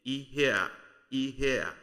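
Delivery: "ihea" joined, with the A clearly heard at the end; "ihea" as one word, ending on an audible falling A; distinct final A. Shown as a demonstration. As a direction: let the A in "ihea" come out without a break. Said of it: "the A sound must come out distinct".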